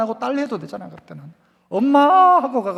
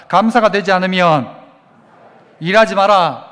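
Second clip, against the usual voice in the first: call and response; 2 semitones lower, 6 dB louder than usual. Shown as a demonstration. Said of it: "따라서 해봅시다".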